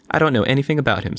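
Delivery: put-on Mary snapping back at the boy; snapped. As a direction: bite the words off fast. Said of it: "snapped Mary".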